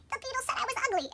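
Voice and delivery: high, plaintive imitation of crying complaint; mock tearful. Crying Thumbelina tells Giacomo, mock tearful. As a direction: whine it up high, pretending to cry. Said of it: "she's crying".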